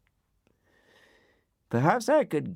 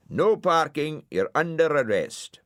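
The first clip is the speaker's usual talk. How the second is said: loudspeaker voice; 10 semitones higher, 5 dB louder than usual. Acted. Loudspeaker sign arrests Dylan.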